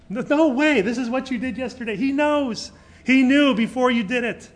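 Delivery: high, loud, rising preacher's protest; emphatic denial. Real, not acted. Preacher to congregation, rejecting the idea, loud and high. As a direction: cry it out to the congregation, no way. Preacher denies God checks video.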